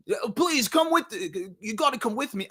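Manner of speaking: high, faltering attempt at Australian; attempted Australian accent. Kid begging worker to come along, shaky Australian accent attempt. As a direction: fumble a pleading line in mock Australian. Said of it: "I can't do a guy doing an Australian accent".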